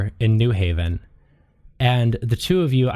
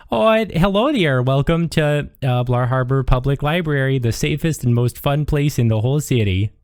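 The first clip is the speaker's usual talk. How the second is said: sweet librarian; 2 semitones higher than usual. Acted. Sweet woman at the library desk greets a visitor, chirpy welcome. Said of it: "the sweetest looking woman is like".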